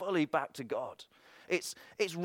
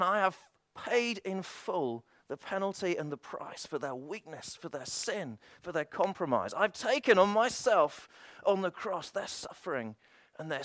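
Jesus pleading. Acted. Jesus voiced interceding before the Father.

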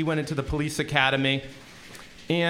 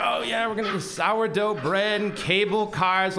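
excited tourist; 3 semitones higher than usual. Retold or imitated. Tim playing the excited tourist.

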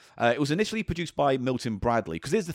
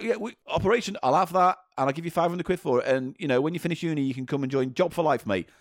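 Marvin Glass; 3 semitones higher than usual. Retold or imitated. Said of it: "Marvin Glass was like".

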